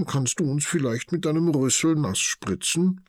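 high eager begging; pleading little animal. A narrator's reading. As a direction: ask the elephant nicely, wide-eyed. Martha begs Tanja.

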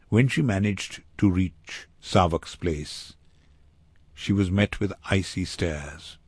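ordinary delivery

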